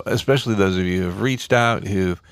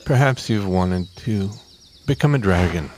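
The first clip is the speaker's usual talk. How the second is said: ad read. Acted. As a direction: sell it like a radio ad. Mock ad read for the studio.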